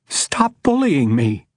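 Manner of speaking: slow shout that cracks; cracking shout. Acted. Judge pushing back at the bullying man, cracking shout. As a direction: push back until the voice breaks. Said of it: "Her voice cracked on her shout".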